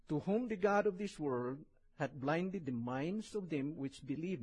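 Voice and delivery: slow, solemn Bible reading; scripture reading. Acted. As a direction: read the verses with weight. Reads scripture aloud.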